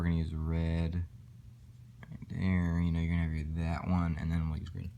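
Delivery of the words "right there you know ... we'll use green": talking around a marker held in the teeth; marker in mouth. Real, not acted. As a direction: speak with a pen clamped in your mouth. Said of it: "I just got a marker in my mouth".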